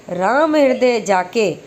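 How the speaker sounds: slow Ram हृदय जाके, then stop; pause after जाके. Shown as a demonstration. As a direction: draw out Ram हृदय जाके as a separate phrase. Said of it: "यहाँ लगा है नहीं से पहले".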